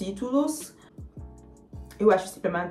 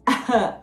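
embarrassed laugh; 4 semitones higher, 4 dB louder than usual. Real, not acted. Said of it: "eu tô com vergonha".

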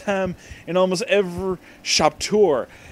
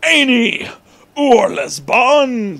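stern principal; 6 semitones higher, 5 dB louder, slower than usual. Acted. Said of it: "Principal Smite said".

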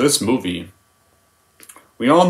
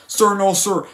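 higher, timid recruit answering; Private Pyle; 8 semitones higher, slower than usual. Retold or imitated. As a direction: answer meekly, staying at attention. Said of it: "How does the scene go?".

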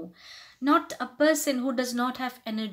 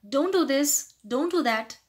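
mildly irritated, insistent order; disgust coming out; 3 semitones higher, 3 dB louder than usual. Shown as a demonstration. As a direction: scold with a touch of disgust. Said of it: "your disgust will come out".

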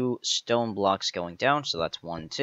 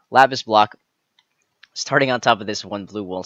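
normal talking voice

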